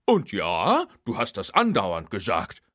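a cheerful hick tow truck chiming in; folksy tow truck. Acted. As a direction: tow truck Hook teasing his friend, high and drawling. Hook's voice.

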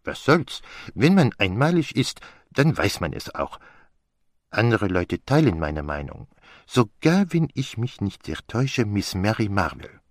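put-on conceited detective with French accent; Poirot. Answering the charge of conceit, as an unashamedly vain Poirot. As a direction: boast breezily in a French accent.

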